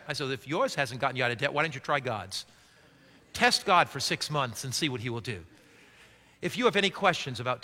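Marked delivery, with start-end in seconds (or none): 0.3-5.4 retold challenge. Pastor retells his own challenge.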